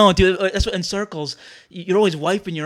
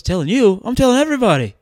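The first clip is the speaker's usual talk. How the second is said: louder, rising into the punchline; boasting rabbi punchline; 4 semitones higher, 5 dB louder than usual. Acted. Rabbi tells priest he's telling everybody, boastful. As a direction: crow it as the bragging rabbi. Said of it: "the rabbi goes".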